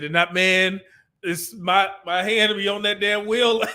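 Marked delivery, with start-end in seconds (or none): 2.0-3.6 laughing. Real, not acted. Laughing at own temptation.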